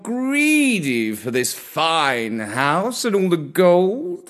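slow, courtly purring cat voice; a kindly old cat proposing gently; old gentleman cat. Acted. Comrade Gatsby voiced in story.

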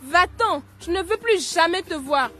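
angry. Acted. Marie accuses friend, sends away.

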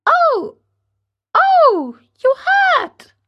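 very high little pained cry; a small voice crying out from the wood; tiny voice crying out. Acted. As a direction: yelp like a hurt tiny creature. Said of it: "cried the same faraway little voice".

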